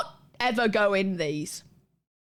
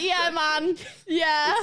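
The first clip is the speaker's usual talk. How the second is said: imitating Fossy's reaction; 6 semitones higher, much slower than usual. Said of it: "Fossy's just like".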